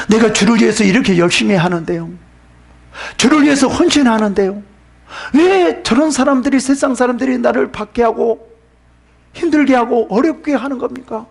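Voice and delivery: mild aggrieved questioning; acted complaint to God. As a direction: complain upward as a wronged believer would. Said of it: "이렇게 불평할 겁니다".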